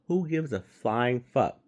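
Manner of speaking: who gives a flying fuck, said slow and scornful; dry scornful repeat. Real, not acted. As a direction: drop it back down with contempt. Ranting about celebrity voice casting.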